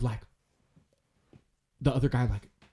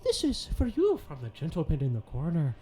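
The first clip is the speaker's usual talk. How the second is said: high-pitched little halfling; halfling waiter voice; 7 semitones higher than usual. Acted. Halfling waiter passes on a drink from a gentleman, high little voice. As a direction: put on a small, high waiter's voice.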